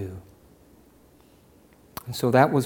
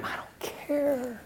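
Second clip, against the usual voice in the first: soft offhand; 12 semitones higher, 8 dB quieter, slower than usual. Acted. Dismissing critics after mock quote.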